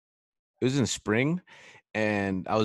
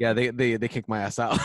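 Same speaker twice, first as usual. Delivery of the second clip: laughing admission; 3 semitones higher, 5 dB louder than usual. Retold or imitated. Telling buddy, laughing.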